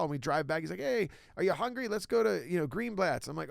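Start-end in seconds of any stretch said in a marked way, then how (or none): 0.8-3.3 excited impression of Dom. Imitating Dom suggesting food.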